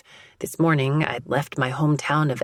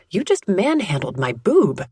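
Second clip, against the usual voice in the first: blurting; 3 semitones higher, 4 dB louder than usual. Acted. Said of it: "I blurt".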